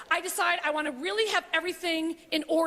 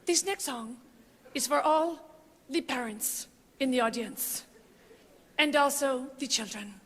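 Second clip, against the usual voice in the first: imitating a singer's dedication; 3 semitones lower than usual. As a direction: breathe it like a sincere ballad intro. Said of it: "she goes like this".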